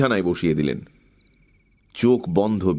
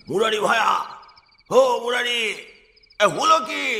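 neighbor calling down; 13 semitones higher than usual. A narrator's reading. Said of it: "হারাধনবাবু ডাকলেন".

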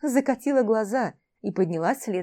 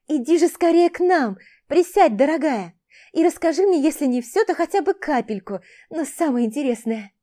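eager invitation; 5 semitones higher, 5 dB louder than usual. Acted. Eager elf calls her over.

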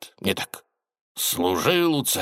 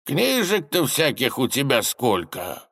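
put-on gentle old tsar; 3 semitones higher than usual. Отец-царь робко у дочери.

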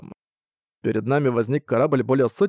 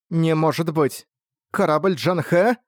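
shocked disbelief; 4 semitones higher, slower than usual. Acted. Rin shocked at ghost ship.

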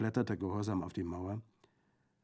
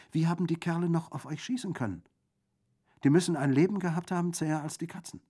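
high, loud, puzzled bandit; jovial bandit, incredulous; 7 semitones higher, 6 dB louder than usual. Acted. Bandit wonders how the dead men fired, loudly amazed. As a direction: marvel boisterously, brushing aside the gloom.

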